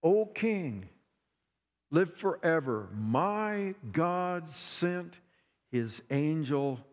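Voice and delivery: slow, steady reply from the den; answering the king calmly and slowly; calm Daniel. Acted. Daniel answers the king from the den, slow and steady. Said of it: "Daniel answers".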